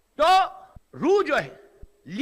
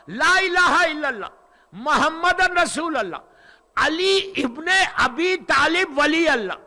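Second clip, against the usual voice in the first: solemn recitation; 3 dB louder, slower than usual. Acted. Reciting the kalima on the throne.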